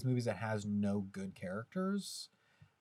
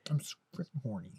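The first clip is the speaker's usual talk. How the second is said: whispered mock; 3 semitones higher, 4 dB quieter, faster than usual. Mocking the husband's frustration.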